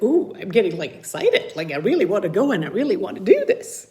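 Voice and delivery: bright eager burst, fast; excited. Shown as a demonstration. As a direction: sound genuinely thrilled to do the chore.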